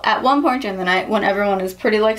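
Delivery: usual speaking voice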